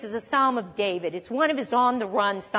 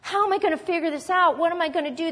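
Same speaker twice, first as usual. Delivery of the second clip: panicked worrying; 4 semitones higher than usual. Pretend. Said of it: "of David talking like this".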